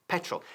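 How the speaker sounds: "petrol" with the weight on the first syllable PE-trol; stress on PE. Shown as a demonstration. Teacher showing students British stress on "petrol". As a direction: lean on PE in "petrol", let "trol" fall away. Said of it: "Nosotros enfatizamos, en cambio, la primera".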